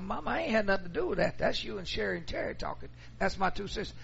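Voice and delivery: high, fast protest to mama; quick, high-pitched son insisting he's innocent; pleading son. Retold or imitated. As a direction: raise the voice and rush to deny blame. Son defending himself to mother.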